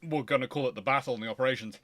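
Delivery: ordinary talk, nothing marked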